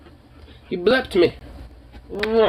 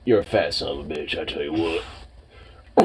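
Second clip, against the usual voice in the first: put-on southern accent; 7 semitones lower, 6 dB quieter than usual. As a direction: play a good-old-boy Southerner ribbing his fat dog. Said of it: "Can you hear the southern accent in the voice?".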